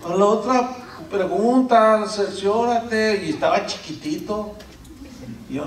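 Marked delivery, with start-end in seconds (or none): 0.0-3.3 put-on child forgiving dad. Son forgives father.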